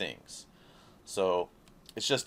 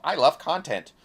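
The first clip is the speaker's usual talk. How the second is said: mock drone; 6 semitones higher, 7 dB louder than usual. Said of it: "you're all".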